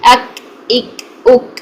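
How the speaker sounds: अक इक उक run together; fluent reading. Shown as a demonstration. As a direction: read them quickly in flow. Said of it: "जल्दी से इसको रवा में पढ़ते हैं". (रवानी से जल्दी)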